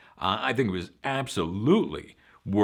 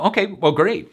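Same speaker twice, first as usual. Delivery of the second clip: mock enthusiasm; 11 semitones higher, 9 dB louder than usual. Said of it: "mock reaction".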